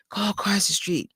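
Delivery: whispered urging to herself; nagging inner whisper. Retold or imitated. Her inner voice nudging her to go buy the merch, whispered. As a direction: breathe it like a voice in your head.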